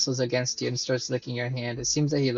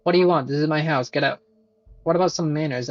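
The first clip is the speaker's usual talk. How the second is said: hostile homeowner; 2 semitones higher, 5 dB louder, faster than usual. Acted. Homeowner snapping at a stranger in his house, loud and hostile. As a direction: bark at the intruder to leave. Gruff NPC owner confronting player.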